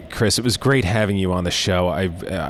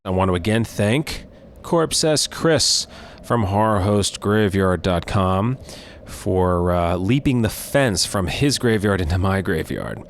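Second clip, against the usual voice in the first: slow, spooky show-host sign-off; horror host; slower than usual. Acted. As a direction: draw it out like a late-night creature-feature host. Horror host closing announcement.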